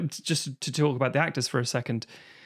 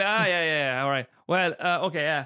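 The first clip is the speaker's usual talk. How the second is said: Irish-tinged "ah". Shown as a demonstration. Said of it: "Comes out more than my London".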